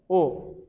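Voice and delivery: "او" said with rounded lips; rounded damma vowel. Shown as a demonstration. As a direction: draw the lips together for "او".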